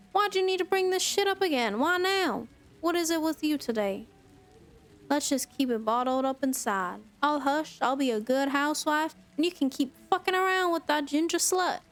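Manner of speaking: heated, rising shouts; angry. Acted. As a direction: lash out at him. Acted marital fight, wife lashing out.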